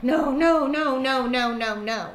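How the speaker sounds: emphatic refusals fading down; refusing. Retold or imitated. Woman refusing requests to teach, emphatic and then fading. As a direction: say no firmly and then let it trail away. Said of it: "I'm like".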